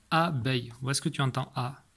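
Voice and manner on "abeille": "abeille" split into a and beille; "abeille" in two distinct beats; syllable by syllable. Shown as a demonstration. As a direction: show the first syllable of "abeille" apart. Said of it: "ça c'est la première syllabe".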